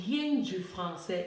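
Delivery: rien drawn out slowly and stressed. Shown as a demonstration. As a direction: lean slowly on rien du français. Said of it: "je dis, donc".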